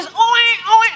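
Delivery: high mock baby wail; imitated baby crying. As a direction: imitate a newborn's "oe, oe" cry. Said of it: "anak udah nangis".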